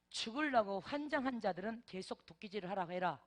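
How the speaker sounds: stern warning in Chungcheong dialect. Retold or imitated. Preacher voicing the Lord's final warning to elders, stern Chungcheong dialect. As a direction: deliver the Lord's threat in Chungcheong dialect, firm. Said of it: "충청도 말로".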